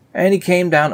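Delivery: high, loud "And he came down"; mock grand opening. Shown as a demonstration. Starting a new verse for viewers, mock grand. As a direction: launch it like a big announcement. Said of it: "okay, here we go".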